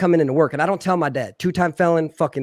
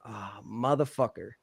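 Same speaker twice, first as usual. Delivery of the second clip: mock dread under breath; 6 semitones lower, 10 dB quieter than usual. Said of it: "And I'm like".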